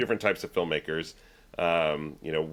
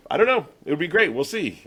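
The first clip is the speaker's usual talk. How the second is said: Walter impression; 9 semitones higher, 5 dB louder than usual. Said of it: "he just had that sort of".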